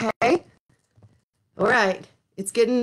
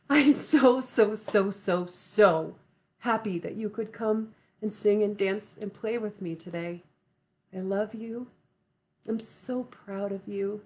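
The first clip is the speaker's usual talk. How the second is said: tender; 3 semitones lower, 4 dB quieter than usual. Real, not acted. Tender goodbye to young viewers.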